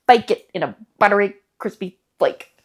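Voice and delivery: BUTTERY, CRISPY FLAKE in separate, deliberate chunks; savoured food phrase. Pretend. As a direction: pause before CRISPY, then land on FLAKE. Savouring the description, then repeating it.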